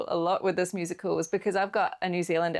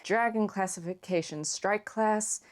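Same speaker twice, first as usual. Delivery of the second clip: put-on lightly nasal American boy-hero voice; a hint of nasal character voice; Hiccup; slower than usual. Shown as a demonstration. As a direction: read it lightly through the nose. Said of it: "almost, like, quite nasally".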